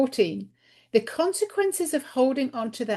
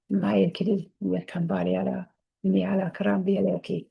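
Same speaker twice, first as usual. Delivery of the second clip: channeled language; 2 semitones lower than usual. Real, not acted. Channeling her guide to viewers, a murmured incantation. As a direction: let the sounds come as if channeled.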